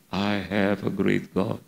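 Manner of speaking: slow, drawn-out avowal; inner declaration. Retold or imitated. Preacher telling his own silent thought, slow inner declaration. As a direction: stretch each word out, savouring it. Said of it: "Saya pikir gini dalam hati".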